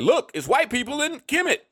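high mock announcing voice; mock announcer. Mocking the diggers' fake discovery, pitched high. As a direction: show off the find in a high mock voice. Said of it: "pretend ... and be like".

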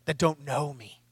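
lightly voiced God, grave and deliberate; God's heartbroken words. God telling the preacher of the lost, slow and sorrowful. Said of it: "he goes".

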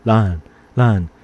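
"Run, run" with each R as L. Retold or imitated. Japanese friend urging him away, "Run, run" with L for R. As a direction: imitate "Run, run" as "lun, lun". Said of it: "The R is like L".

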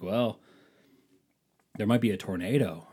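imitated casual unconcern; nonchalant. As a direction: mention it as if it hardly matters. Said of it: "really a nonchalant way to say that".

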